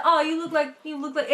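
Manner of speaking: imitated New England snippet; lightly put-on New England voice; New England accent. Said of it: "New England would be like".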